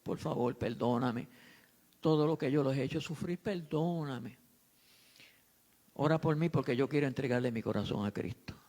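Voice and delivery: a touch of a broken son asking pardon; tearful apology. Retold or imitated. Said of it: "le dijo".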